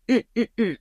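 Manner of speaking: mock struggling noises; imitated struggling. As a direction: act out squirming against someone's hold. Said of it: "I'm struggling and being like".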